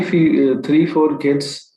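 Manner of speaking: normal talking voice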